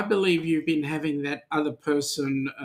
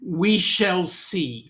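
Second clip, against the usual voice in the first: ominous tease; 3 semitones higher, much slower than usual. Real, not acted. Teasing rival fan about final.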